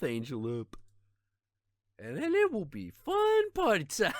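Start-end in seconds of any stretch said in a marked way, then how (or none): 2.0-4.1 high, giggly delivery breaking into laughter; laughing. Real, not acted. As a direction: laugh through the last words. Laughing at his own plan.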